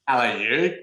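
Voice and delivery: exaggerated Northern Irish greeting; Northern Irish accent. Showing off the survival accent, Northern Irish accent. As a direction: lilt it in broad Northern Irish. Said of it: "I was talking like this".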